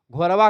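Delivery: घोरवा said ghor-wa with a tapped r and a -wa ending; Bihari form. Shown as a demonstration. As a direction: give घोरवा the dialect's -wa tail. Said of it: "Bihar में चलेंगे तो घोरवा कहेंगे".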